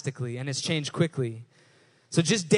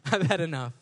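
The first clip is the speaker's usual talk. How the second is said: fed-up; 2 semitones lower, 3 dB quieter than usual. Retold or imitated. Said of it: "You ever say that?".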